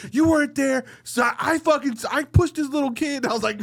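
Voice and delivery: high-pitched mock wife voice; mimicking wife. Husband imitates his wife admitting she pushed a kid in a high voice. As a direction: squeak it out like his wife confessing.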